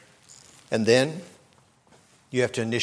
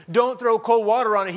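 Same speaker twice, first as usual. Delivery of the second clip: higher and louder, preacher's ringing cry; loud preached plea; 11 semitones higher, 7 dB louder than usual. Acted. Preacher urging couples, high and loud. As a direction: hammer home "Don't throw cold water on it" in a high, loud call. Preached climax of same advice.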